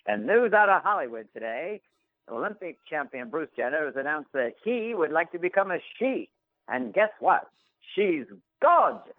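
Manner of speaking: put-on high, punchy old newsreel announcer; 1930s newsreel narrator. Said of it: "as told in the nineteen thirties with a newsreel".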